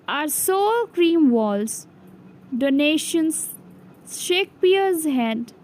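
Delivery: measured poem reading, phrase by phrase; poem recitation. A narrator's reading. Teacher reading the poem from the NCERT book, measured recitation. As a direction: read verse aloud with pauses between lines.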